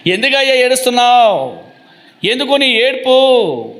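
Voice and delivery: high, drawn-out acted question; acting out a puzzled demand; insistent questioning. Preacher voices questioner of weeping Jacob.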